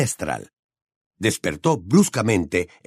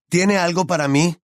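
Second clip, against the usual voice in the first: raised, higher-pitched demand; louder, insistent question; 7 semitones higher than usual. A narrator's reading. Harry asks the old woman a third time, louder, insistent. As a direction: ask it again, pitched up and insistent. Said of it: "más fuerte aún".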